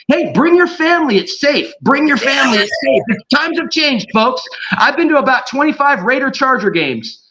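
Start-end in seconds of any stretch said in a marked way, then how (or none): 0.1-4.4 high-pitched imitation of a come-on-in promoter; mock sales pitch. Stadium promoter to fans with kids, mock inviting. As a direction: hawk it like a family-day promoter.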